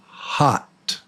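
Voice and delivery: "hot" whispered with a clear open "ah"; whispered listening-test word "hot"; quiz word demo. Shown as a demonstration. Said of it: "Here's the word".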